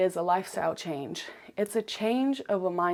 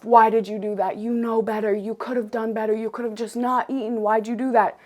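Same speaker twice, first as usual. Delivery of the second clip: mock angry self-scolding; 2 semitones higher than usual. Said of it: "Be mad at myself".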